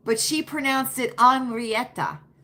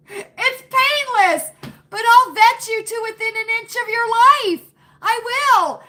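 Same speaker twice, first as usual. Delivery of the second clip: mock menace; 11 semitones higher, 8 dB louder than usual. Mock-menacing vetting joke.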